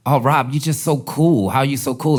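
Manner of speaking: high, sugary mock praise; mock sarcastic gush. Guest host teasing Rob, high sarcastic gush. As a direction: gush fake compliments at him. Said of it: "she was mad sarcastic".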